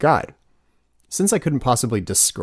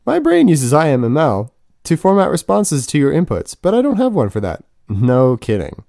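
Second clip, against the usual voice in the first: mock robot voice; 4 semitones higher, 4 dB louder than usual. Mocking the bot's canned reply.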